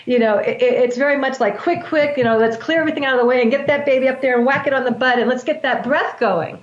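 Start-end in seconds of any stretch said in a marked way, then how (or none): 1.6-6.6 mock rush of a delivery room; hurried hospital staff. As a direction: rattle it off fast like a busy nurse.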